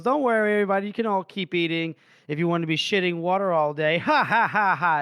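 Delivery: mock cheerful, chuckling at his own joke; laughing crime boss. Crime boss laughs off the bad food to the room, lightly voiced. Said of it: "he's laughing, goes".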